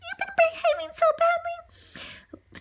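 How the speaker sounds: high, reproachful scolding of the dog; scolding owner. Acted. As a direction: tell off a naughty pet. Jim turned to Lady and said.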